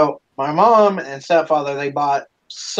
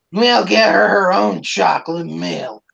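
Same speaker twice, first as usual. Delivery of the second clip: higher, put-on grandmother voice; exasperated grandmother; 4 semitones higher than usual. Step-grandmother settles the milk quarrel, higher put-on voice. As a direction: imitate a grandmother settling a squabble.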